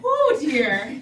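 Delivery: loud high gasp; in ice cold water. Real, not acted.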